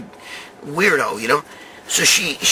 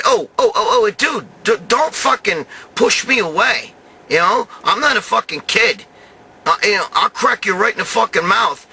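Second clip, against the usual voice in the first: retold angry threat; 5 semitones higher than usual. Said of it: "So I got mad, and I said".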